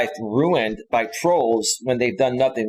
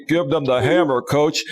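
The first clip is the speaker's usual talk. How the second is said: lightly mimicked Southern twang; Southern accent. Host imitating the guy who came on his panels, Southern accent. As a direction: quote him in a mild Southern accent. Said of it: "when this guy would come on".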